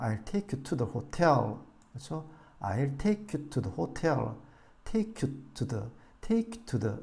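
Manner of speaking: I'll take you to the hotel, slow, to the quick and light; slow teaching drill. Shown as a demonstration. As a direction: stress take and hotel, skim to the. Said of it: "to 전치사도 빠르고 약하게".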